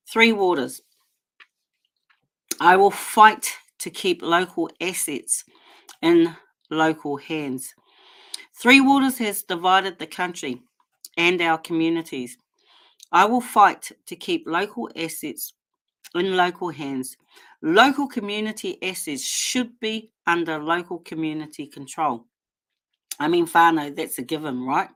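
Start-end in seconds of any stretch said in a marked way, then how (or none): 2.6-22.3 reading a statement. Shown as a demonstration. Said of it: "read out to you my statement". 23.2-24.9 talking around a lolly; sucking a lolly while talking; mouth full. Real, not acted. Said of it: "I've got a lolly in my mouth".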